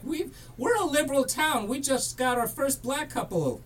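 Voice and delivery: high-pitched mock older lady; imitated town lady. Host quoting the older lady interviewed in the movie, lightly imitated. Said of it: "older lady for the local newspaper. She's like".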